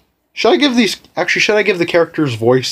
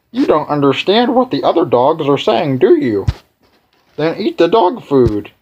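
put-on tired old dog; 3 semitones higher than usual. Old dog brushing off the newcomer, lightly weary. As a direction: grumble like a sleepy old dog. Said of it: "That old guy".

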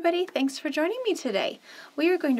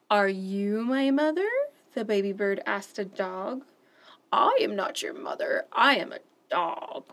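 animated picture-book read-aloud; expressive children's story narration. Acted. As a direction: read it like story time for little ones.

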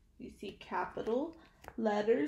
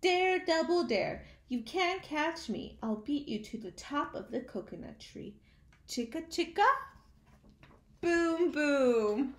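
taunting; 4 semitones higher than usual. Acted. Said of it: "this is what he said".

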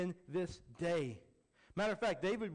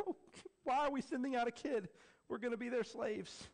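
worried Israelites; 7 semitones higher than usual. Retold or imitated. Israelites crying in fear.

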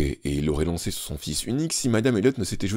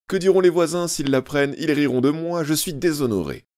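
tearful mother; 9 semitones higher, 4 dB louder than usual. A narrator's reading. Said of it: "sanglota madame Elliot".

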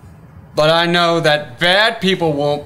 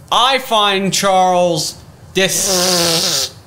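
disgusted. Acted. Telling friend about Charles, theatrically disgusted. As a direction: relish every syllable of contempt.

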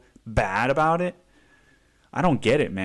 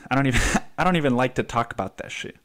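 laughing; much faster than usual. Real, not acted. Laughing while repeating himself.

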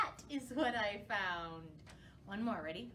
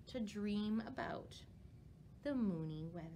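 rhyming picture book, slowing and softening toward the end; storybook reading; slower than usual. A narrator's reading. Librarian finishes the bat story for children, gentle read-aloud. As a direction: lull the children toward the bedtime ending.

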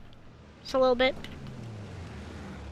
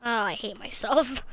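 usual speaking voice

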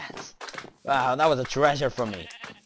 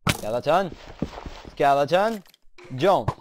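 yelling at skeleton; 2 semitones higher, 4 dB louder than usual. Real, not acted.

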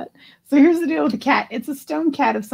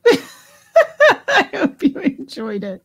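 slow, higher words through laughing; helpless laughter; 5 semitones higher, much slower than usual. Real, not acted. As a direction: barely get it out for laughing. Cracking up after the performance.

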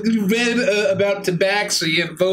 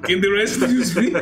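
put-on amused Eastern European accent; 2 semitones higher than usual. Asking the party to speak, Eastern European accent. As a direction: ask in Eastern European, near laughing. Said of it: "you now speak with an Eastern European accent".

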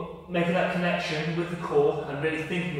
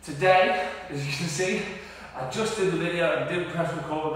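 breathless after a workout; out of breath. Real, not acted. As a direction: talk while catching your breath. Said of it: "that's why I'm out of breath".

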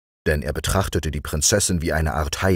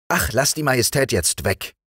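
king calling out; 8 semitones higher than usual. A narrator's reading. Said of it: "rief der König, der sich in dem fremden Wald fürchtete".

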